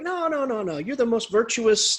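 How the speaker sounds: high string of quick denials; acted, insistent praise; protesting reassurance. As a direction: wave away his shame emphatically. King protests against knight's shame.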